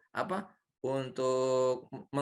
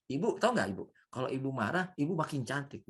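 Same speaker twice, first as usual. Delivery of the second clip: calm flattery; 3 dB quieter than usual. Pretend. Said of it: "Santai aja".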